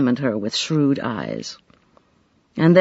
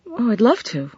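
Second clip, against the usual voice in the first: glowing; 7 semitones higher than usual. A narrator's reading. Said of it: "Katie, glowing".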